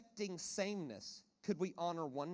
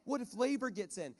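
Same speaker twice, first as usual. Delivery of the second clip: higher, fretful mock panic of worried Christians; imitating panicky churchgoers, higher and slower; 5 semitones higher, 4 dB louder, slower than usual. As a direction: ham up the flustered believers. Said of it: "like, they panic".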